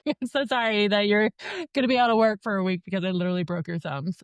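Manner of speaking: giggling through a jokey sorry; a real laugh bubbling through the words; laughing apology. Real, not acted. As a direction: laugh while teasing the nurse. Joking with nurse during needle.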